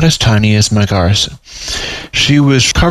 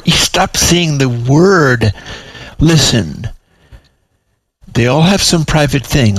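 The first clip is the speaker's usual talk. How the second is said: exasperated madam; 2 semitones higher than usual. Acted. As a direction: lose patience and lay it out. Demarley lost patience.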